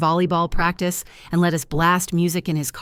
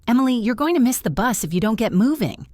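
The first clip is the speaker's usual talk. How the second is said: warm but commanding; 6 semitones higher than usual. Acted. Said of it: "her voice warm but commanding".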